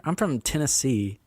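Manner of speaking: a hammed-up Tennessee twang; Southern accent. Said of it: "What kind of accent was that?".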